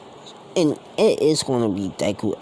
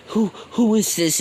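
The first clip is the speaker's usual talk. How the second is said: much higher, louder startled who is this; shocked question; 10 semitones higher, 4 dB louder than usual. Retold or imitated. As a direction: sound thrown by a stranger in the house. Husband shocked by stranger.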